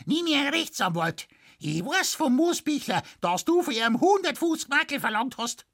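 put-on very high, shrill furious old woman; shrill shouting. A narrator's reading. Widow demanding her clock back from the blacksmith, shrill and high. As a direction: screech her demand at him. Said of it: "schrie die Biskuin schrill".

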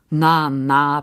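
put-on gently calm a child down; understated comforting tone; soothing. A narrator's reading. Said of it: "begütigte Frau Groß".

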